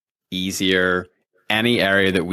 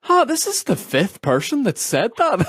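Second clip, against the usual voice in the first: much higher, laughing mock listener voice; amused realization; 14 semitones higher than usual. Host voicing listeners who catch the pattern, laughing. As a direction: play the dawning listener, chuckling.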